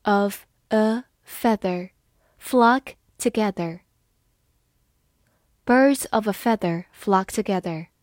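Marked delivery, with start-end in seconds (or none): 0.0-3.8 slow. Shown as a demonstration. Slow read before natural repeat.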